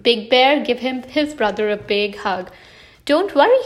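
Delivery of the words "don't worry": high, kind reassurance; kindly. A narrator's reading. Big Bear comforting his little brother, kindly. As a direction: reassure him with a raised, lilting voice. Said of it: "he said kindly".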